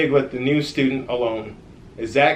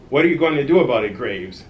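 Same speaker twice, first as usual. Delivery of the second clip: growling bully; 4 dB louder than usual. Acted. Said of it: "growled Frankie Big".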